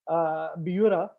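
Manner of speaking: Biura with a B, not V; Indian pronunciation. Shown as a demonstration. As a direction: say Biura starting with a clear B. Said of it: "you don't pronounce V's".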